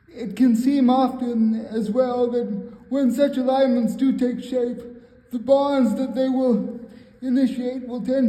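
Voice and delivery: measured spoken poetry reading; poem recitation. Acted. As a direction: recite it line by line, pausing between phrases.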